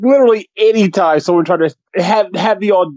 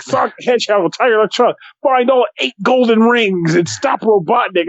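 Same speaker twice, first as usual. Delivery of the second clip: fast, hyped commercial voice; excited ad announcer; 3 semitones higher than usual. Retold or imitated. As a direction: sell it like a toy ad. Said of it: "trying to make it sound excited".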